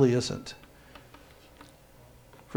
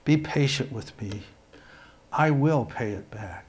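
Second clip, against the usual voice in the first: begging; 3 semitones lower, 6 dB quieter than usual. A narrator's reading. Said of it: "begged him".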